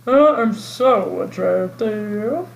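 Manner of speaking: slow, vain campy diva; campy drag queen. Pretend. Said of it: "looks like a drag queen".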